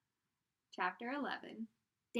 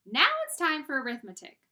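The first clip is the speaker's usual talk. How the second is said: loud, higher teacher call; stern teacher announcement; 5 semitones higher, 11 dB louder than usual. Acted. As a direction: call the class to order.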